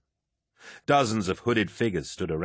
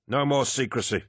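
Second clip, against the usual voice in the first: hidden lodge master voice; 5 semitones higher than usual. Acted. Hidden voice ends ritual.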